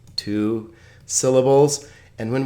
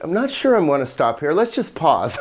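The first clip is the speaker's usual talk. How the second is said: higher, quick, lightly voiced indecision; hesitant aside; 4 semitones higher than usual. Teacher voicing the semicolon's meaning, mildly hesitant. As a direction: lightly act out being unsure.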